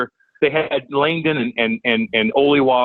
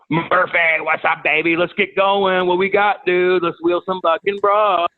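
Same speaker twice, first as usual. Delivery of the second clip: amped party call; 5 semitones higher, slower than usual. Retold or imitated. Calling buddy to party.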